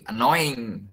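annoying said very slowly, the "in" sent out through the nose; slow nasal annoying. Shown as a demonstration. Teacher slowly modeling annoying for the class, nasal ending. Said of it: "cái âm in này nó đưa ra đường mũi".

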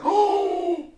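loud high shocked cry; crowd's shocked oh. Retold or imitated. The audience reacting to the scene, loud shocked cry. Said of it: "Everybody's like".

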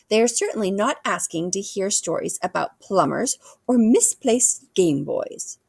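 lightly voiced queen giving advice; regal queen, admonishing. Queen advising the boy on small talk, mildly admonishing.

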